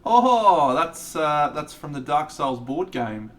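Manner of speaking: sudden high, loud oh of recognition; light up as you spot it; surprised recognition. Real, not acted. Spotting a Dark Souls model in chat, excited surprise.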